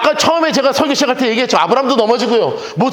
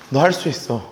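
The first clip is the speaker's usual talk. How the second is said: tender reassurance; 11 semitones lower than usual. Retold or imitated. Jesus comforts the fallen believer. (넘어진 성도에게 예수님이 낮고 부드럽게 격려하며)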